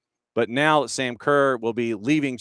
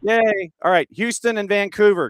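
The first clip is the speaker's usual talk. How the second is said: excited cheer; 9 semitones higher, 5 dB louder than usual. Real, not acted. Connection finally works.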